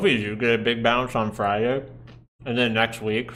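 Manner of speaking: talking through a mouthful; words round a bite of food; mouth full. Real, not acted. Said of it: "sorry for talking with food in my mouth".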